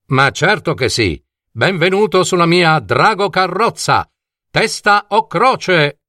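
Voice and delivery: lightly voiced showman coachman; welcoming dragon coachman. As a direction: welcome the passenger with a flourish. Coachman welcomes gull aboard. (cocchiere del drago, benvenuto un po' teatrale)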